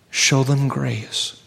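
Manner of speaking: slow, gentle voice of the Spirit. Acted. Spirit gently answering the praying seminarian, slow and tender. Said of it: "the Spirit spoke to me very gently".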